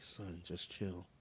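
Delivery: slow, soft copy of his line; imitating daughter. Dad showing how his daughter parroted him, slow and soft. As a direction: drag it out like a kid repeating. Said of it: "so then she's like".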